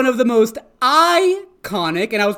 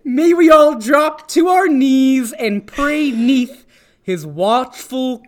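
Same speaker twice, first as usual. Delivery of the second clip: mock reverent; 2 semitones higher than usual. Mock reverent eyeball praise.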